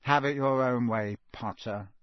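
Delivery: a hint of grinning malice; Malfoy grinning maliciously at Harry; malicious grin. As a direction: sneer it with a grin. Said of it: "grinning maliciously".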